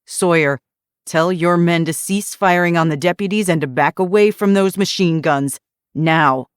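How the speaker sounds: loud, firm command. Acted. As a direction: order it with force. Armed standoff, commanding.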